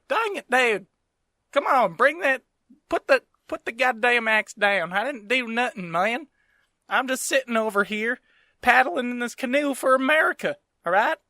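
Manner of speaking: put-on high-pitched redneck Southern accent; whiny redneck accent, protesting his innocence; George Washington as redneck. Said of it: "So much funnier if he's a redneck".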